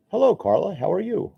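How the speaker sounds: put-on a clumsy stab at a Kiwi-ish accent; bad accent attempt. Painter greeting a New Zealand viewer in a bad put-on accent. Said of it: "I have no idea what kind of accent that was".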